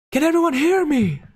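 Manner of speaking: shrill shouted question; high scream. Acted. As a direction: shriek it high. Scream voice continues.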